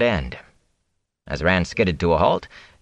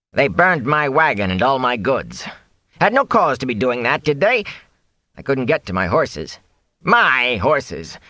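high, complaining peddler voice; Fane, aggrieved; 5 semitones higher than usual. Acted. Fane recounts his losses to Rand, aggrieved. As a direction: protest bitterly, climbing to high indignant questions.

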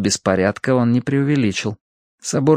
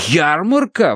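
surprised, higher-pitched exclamation; exclaiming; 7 semitones higher, slower than usual. A narrator's reading. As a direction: pounce on the word in surprise. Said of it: "воскликнул я". (удивлённое восклицание)

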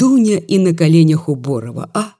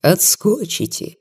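ironic remark; 4 semitones lower, 3 dB quieter, slower than usual. Acted. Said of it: "иронически заметил купец".

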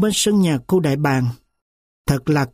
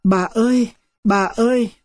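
crying out; 4 semitones higher than usual. A narrator's reading. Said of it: "ôm sườn bà kêu to".

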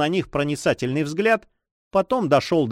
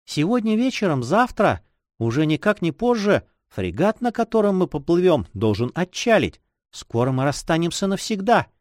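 lightly voiced girl facing parting; a hint of a sorrowful girl; sad young girl; 3 semitones higher than usual. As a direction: gently lament the coming farewell.

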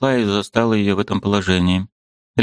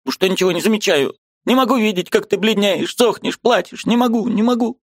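put-on high, pleading old woman's voice; an aunt who can't bear it any longer; distressed old aunt; 8 semitones higher than usual. A narrator's reading. Aunt Marfa pleading with her pale niece, high and anguished.

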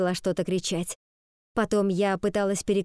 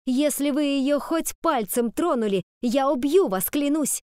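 higher, louder vow of revenge; furious threat; 6 semitones higher, 3 dB louder than usual. A narrator's reading. Ivy threatening the fox over her sister, higher and loud. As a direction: threaten her with everything you have.

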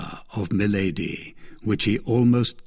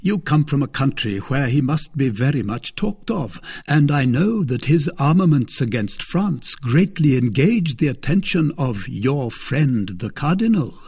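lightly raised, mocking brother-in-law; a hint of a smug lord; Lord de Winter; 4 semitones higher than usual. Lord de Winter taunting his captive sister-in-law, lightly voiced.

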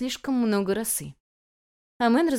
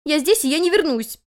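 stubborn cry; 9 semitones higher, 6 dB louder than usual. A narrator's reading. Guest refuses stubbornly.

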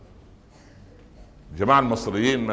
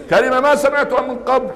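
high, astonished cry of disbelief; mock amazement; 11 semitones higher than usual. Preacher to the crowd, stunned by youth slang, high mock astonishment. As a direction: act stunned at a strange new word.

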